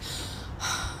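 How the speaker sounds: dramatic sigh. Retold or imitated. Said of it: "so dramatically".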